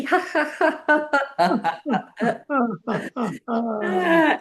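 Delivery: cheerful demo laugh; high laugh. Shown as a demonstration. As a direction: laugh with the cup. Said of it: "pick up your favorite cup".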